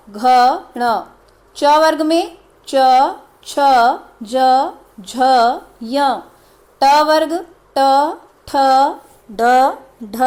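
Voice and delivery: क ख ग घ said crisply, one by one with pauses; reciting the consonants. Shown as a demonstration. Teacher recites the consonant groups for students to repeat. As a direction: drill through each consonant group clearly. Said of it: "इसमें सब हलंत वाले हैं वर्ण".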